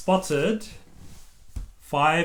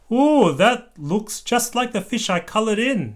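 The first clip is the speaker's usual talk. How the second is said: excited; 7 semitones higher, 3 dB louder than usual. A narrator's reading. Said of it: "said Peppa".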